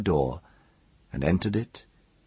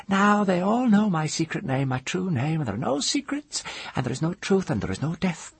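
screamed, sobbing; 13 semitones higher than usual. A narrator's reading. Woman giving up all secrets, screaming and sobbing. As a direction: cry out hysterically, losing force gradually. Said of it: "She screamed the word, sobbing".

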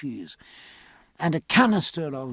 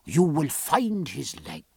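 reassuring doctor. Acted. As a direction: promise a full recovery as the physician.

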